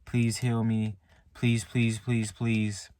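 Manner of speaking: mild imitation of begging God for help; soft retold pleading. Retelling his prayer to God, a soft plea. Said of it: "I was pleading to God".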